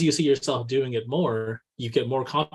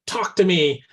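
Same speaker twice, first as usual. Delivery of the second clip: eager call-out; 3 semitones higher, 4 dB louder than usual. Retold or imitated. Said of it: "grabbing me and saying".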